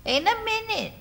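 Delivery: mocking echo. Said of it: "In a minute's all you say".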